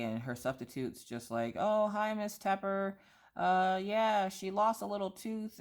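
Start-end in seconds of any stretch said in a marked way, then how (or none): 1.6-5.6 higher, bright-voiced teacher greeting; chirpy substitute. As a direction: lightly play a cheerful substitute.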